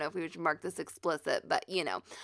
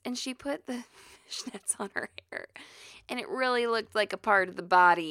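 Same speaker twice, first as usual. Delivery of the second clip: whispered, scandalised gossip. Real, not acted. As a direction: whisper it like a secret. Whispered gossip about fishnets.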